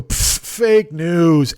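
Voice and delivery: scoff, then a drawn-out mock dismissal; dismissive scoff. Online arguer waving away all your arguments, mock dismissive. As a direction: blow it off with a slow, scornful pfft. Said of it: "And then just go".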